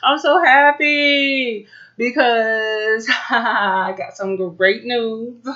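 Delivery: squealing happy cheer; excited cheer. Acted. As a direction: burst out with glee. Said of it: "I just wanna be like".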